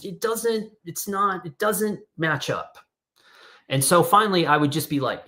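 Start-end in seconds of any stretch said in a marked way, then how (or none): 0.0-2.8 exasperated. Real, not acted. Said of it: "trying to explain a photo project".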